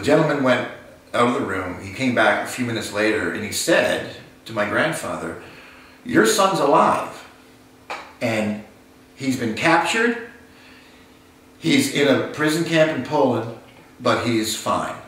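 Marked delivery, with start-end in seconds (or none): 6.0-15.0 lifted, slowed announcement of good news; joyful news. Retold or imitated. Officer telling the grandfather his son is alive, gladly lifted. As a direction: break the good news gently but gladly.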